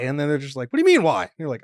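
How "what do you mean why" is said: incredulous local. Retold or imitated. Locals answering his question.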